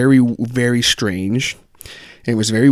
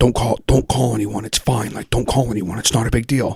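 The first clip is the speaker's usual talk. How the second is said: very quiet, hushed speech. Retelling an overheard phone call, imitating someone talking very quietly. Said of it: "then he started talking very quietly".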